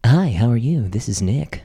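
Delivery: polite phone voice; customer service voice. Shown as a demonstration. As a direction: friendly call center greeting. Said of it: "what's your phone voice? Can we try it out".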